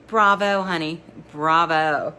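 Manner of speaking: a dry, teasing bravo; lightly voiced sarcastic friend. Rennie mocking applause.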